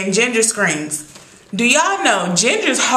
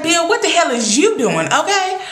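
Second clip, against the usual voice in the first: high-pitched exasperated telling-off; incredulous scolding; 6 semitones higher than usual. Retold or imitated. Viewer asking Bill what he is doing, incredulous. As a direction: scold him in high disbelief.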